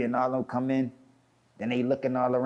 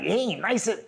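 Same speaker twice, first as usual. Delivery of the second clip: retold belittling put-down, pitched up; higher-pitched mock scoffing; dismissive scorn; 4 semitones higher than usual. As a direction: imitate someone sizing up and dismissing a rival. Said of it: "He start talking like that".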